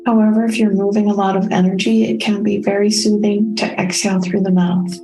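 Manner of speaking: calm, unhurried meditation guide with long pauses; soothing, evenly paced meditation voice; guided meditation. Real, not acted. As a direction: guide listeners gently inward, leaving space between phrases. Leads a self-care meditation.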